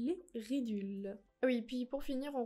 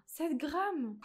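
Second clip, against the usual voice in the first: shocked exclamation; 4 semitones higher, 4 dB louder than usual. Real, not acted. Shocked by the tiny quantity.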